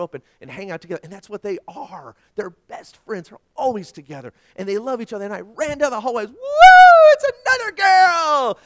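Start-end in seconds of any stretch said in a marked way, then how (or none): 6.3-8.6 high, loud whoop stretched out long; joyful full-voiced yell; elated shout. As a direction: re-enact a proud dad hollering down the hallway. Re-enacts running down hallway shouting.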